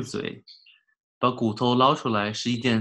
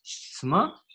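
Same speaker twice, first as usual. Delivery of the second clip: fierce snap; 7 semitones higher than usual. A narrator's reading. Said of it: "狠狠道".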